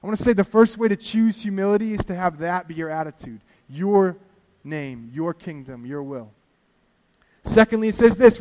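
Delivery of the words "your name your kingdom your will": much softer and slow, a hushed prayer. Acted. Repeats the prayer words softly.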